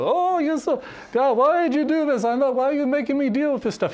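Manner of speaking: high, loud complaining Jewish caricature voice; exaggerated Jewish accent, high-pitched exasperated whine; mock Jewish accent. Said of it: "that's your typical Jew; That's your Jewish accent?".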